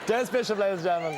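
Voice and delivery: loud announcer call to the audience; host's shout-out. Real, not acted. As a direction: sell the name to the crowd. Host introduces the guest.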